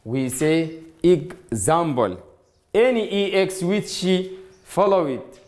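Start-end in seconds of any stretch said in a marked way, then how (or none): 1.0-2.2 "example" said slowly, opening with an "ig" sound; pronunciation demo. Shown as a demonstration. Teacher showing students how "example" is said, slow pronunciation demo. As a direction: break "example" as ig-ZAM-ple, slowly. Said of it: "because in pronouns we say".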